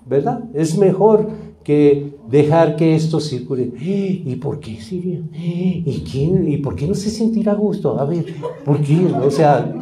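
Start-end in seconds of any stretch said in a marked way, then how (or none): 3.8-9.1 prying, hushed questions from the gossips; nosy gossipers. Acted. Pastor imitates curious church gossipers, prying and hushed. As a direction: ask like you're digging for dirt, half under your breath.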